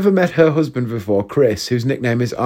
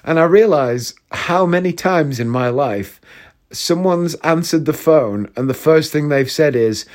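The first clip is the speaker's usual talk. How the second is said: ordinary talk, nothing marked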